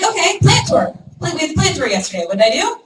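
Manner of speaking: reliving the plant tour with a friend, excited; excited recap. Retold or imitated. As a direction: gush about the plant tour. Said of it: "Or I'm like".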